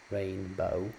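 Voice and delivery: slowly, feeling each beat of rainbow; slow syllable demo. Shown as a demonstration. Teacher slowing down to show syllable beats. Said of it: "a really easy way to do this".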